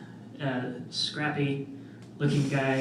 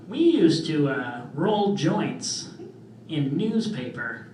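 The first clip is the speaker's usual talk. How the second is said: cool dad; slower than usual. Retold or imitated. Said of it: "trying to be the cool dad".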